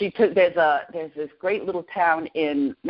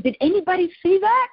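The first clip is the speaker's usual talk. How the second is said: retold amazed question; 11 semitones higher, 3 dB louder than usual. Excited question to her family.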